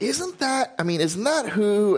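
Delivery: high-pitched, tentative wondering; retold puzzlement. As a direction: imitate yourself trying to place someone. Retold puzzled phone conversation.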